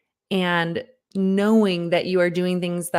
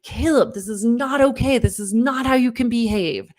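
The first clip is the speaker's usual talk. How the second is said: higher, firm mock scold with falling ends; stern scolding; 4 semitones higher than usual. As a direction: tell off a misbehaving kid. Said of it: "I just end up flipping over to".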